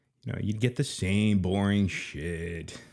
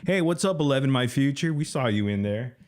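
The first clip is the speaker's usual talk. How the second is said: mocking greeting; 5 semitones higher than usual. Real, not acted. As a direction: greet them with a sneer.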